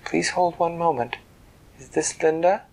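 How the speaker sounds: lightly voiced formal secretary; polite office voice on the line; phone secretary. A secretary connecting the president's call, lightly formal.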